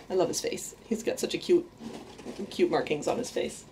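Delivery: hushed, whispery admiration of the rat; soft cooing. Real, not acted. Owner cooing over her pet rat, hushed. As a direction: coo softly over a pet's face.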